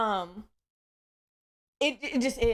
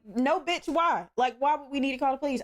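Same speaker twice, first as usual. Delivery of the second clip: mad; 4 semitones higher than usual. Retold or imitated. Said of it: "I got mad".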